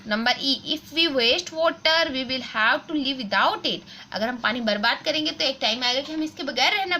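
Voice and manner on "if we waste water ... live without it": put-on slow, careful textbook reading for children; reading aloud slowly. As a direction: read each word clearly for the class. Reads the exercise sentence. (बच्चों के लिए धीरे-धीरे पढ़ना)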